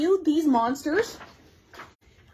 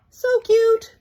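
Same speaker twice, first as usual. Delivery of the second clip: excited squeal; 9 semitones higher, 6 dB louder than usual. Real, not acted. Gushing over new stickers.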